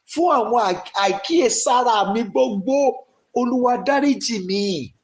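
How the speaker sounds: fast, urgent pleading prayer in Yoruba; fervent prayer. Shown as a demonstration. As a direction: rush the words, begging Olúwa for mercy. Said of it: "Go ahead and pray".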